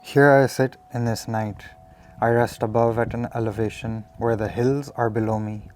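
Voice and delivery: measured recital, pausing between phrases; earnest spoken-verse delivery; poem reading. Acted. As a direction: read your own poem aloud, each phrase starting firm and falling away. Reads own poem aloud.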